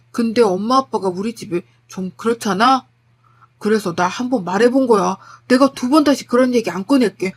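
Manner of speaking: lightly voiced begging husband; pleading husband. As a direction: beg the wife, mildly urgent. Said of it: "계속 빌더라고요". (아내에게 매달려 비는 남편 말투)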